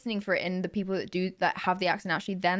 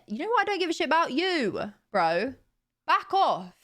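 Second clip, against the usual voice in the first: mock angry; 5 semitones higher than usual. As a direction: tell the commenter to back off, half joking. Snapping back at commenters.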